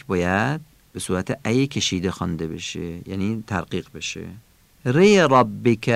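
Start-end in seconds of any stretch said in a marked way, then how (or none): 4.8-5.9 ری ربک with a thick, full-mouthed r, said slowly; heavy r. Shown as a demonstration.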